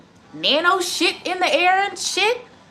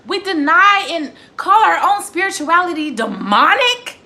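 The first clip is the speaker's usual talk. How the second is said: incredulous; 4 semitones higher, 5 dB louder than usual. Real, not acted. Incredulous rant question.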